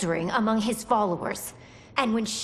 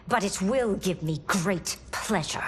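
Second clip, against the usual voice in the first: menacing whisper. Acted. Empress relishes executing prisoners.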